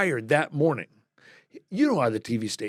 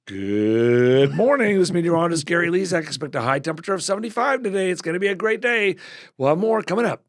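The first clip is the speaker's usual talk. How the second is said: announcer voice; 4 semitones higher, 3 dB louder than usual. Retold or imitated. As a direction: ham up a morning forecast read. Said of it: "and you would hear".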